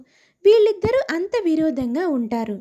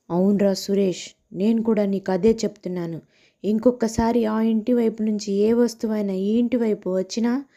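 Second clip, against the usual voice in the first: a husband pretending to fight his friend, lower; husband's mock quarrel; 6 semitones lower than usual. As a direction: lower male voice staging a threat. (నటిస్తూ గొడవపడే భర్త, తక్కువ స్వరంలో)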